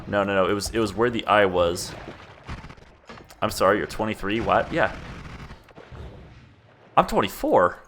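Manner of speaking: ordinary delivery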